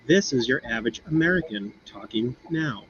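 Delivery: average American accent, plainly demonstrated; neutral American accent. Shown as a demonstration. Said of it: "a normal English speaking voice".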